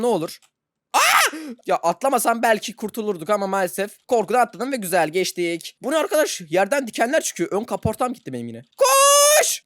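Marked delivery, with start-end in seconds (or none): 0.9-1.4 very high loud yelp; real fright scream; startled scream. Real, not acted. Car jumps suddenly. 8.8-9.6 very high, loud urgent shout; frantic shout; shouting run. Real, not acted.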